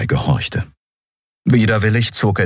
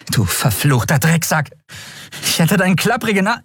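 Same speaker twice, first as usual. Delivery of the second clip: angry curse; 9 semitones higher than usual. Acted. Endriel curses the skeleton.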